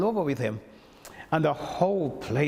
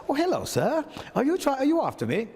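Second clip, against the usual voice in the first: surprised greeting; 12 semitones higher than usual. Retold or imitated. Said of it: "I said".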